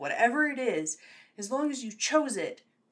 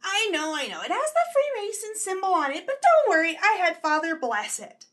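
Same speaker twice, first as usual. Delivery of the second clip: put-on old lady voice; 5 semitones higher, 3 dB louder than usual. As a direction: play a chatty church grandma. Grandma continues talking.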